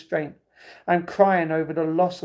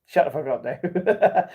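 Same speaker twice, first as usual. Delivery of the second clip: laughing jab; 4 dB louder, slower than usual. Real, not acted. Laughing at Dave.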